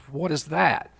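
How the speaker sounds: a touch of puzzled disbelief; retold baffled reaction. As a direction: replay the moment of confusion, lightly acted. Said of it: "My immediate reaction".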